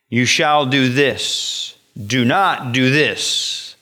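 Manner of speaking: slow, measured lawgiver voice; slow solemn decree of the lawgiver; God's commands. Retold or imitated. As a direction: lay down the law deliberately. God giving the law.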